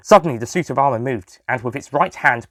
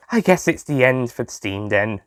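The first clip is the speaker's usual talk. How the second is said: sighing. Acted. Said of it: "Liam sighed".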